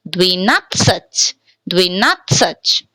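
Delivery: slow "dvinatsach" with "dvi" and a weak final "uh"; stressed "nat" between two reduced vowels in "dvinatsach". Shown as a demonstration. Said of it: "then we have to pronounce as a".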